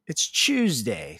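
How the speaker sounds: slow "Tuesday" as CHEWS-day; "Tuesday" opening on a ch sound; British Tuesday. Shown as a demonstration. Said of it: "They chew the day".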